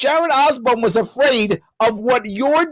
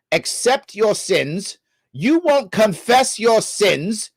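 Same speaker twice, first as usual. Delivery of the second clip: mock translation; 2 semitones lower than usual. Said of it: "I'm gonna be a translator real fast".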